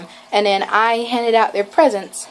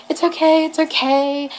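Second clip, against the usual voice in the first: imitated reassurance; 8 semitones higher than usual. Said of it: "he put his hand on my back".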